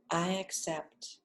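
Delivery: slow, soft "I accept." with weight on "I"; calm affirmation. Shown as a demonstration. Teacher offering the mantra, slow and gentle. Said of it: "it's gonna be simply".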